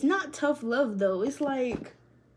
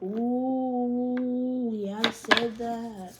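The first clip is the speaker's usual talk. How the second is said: drawn-out self-impressed; much slower than usual. Real, not acted. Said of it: "repeated self praise".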